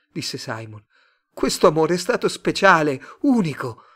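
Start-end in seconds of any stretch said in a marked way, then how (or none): 1.3-3.8 high, loud, fervent claim; impassioned insistence. A narrator's reading. Simon defending his love to Mr Tate, impassioned. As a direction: insist on it with raised voice.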